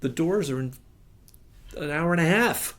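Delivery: pressured. Retold or imitated. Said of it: "he's obviously feeling the pressure".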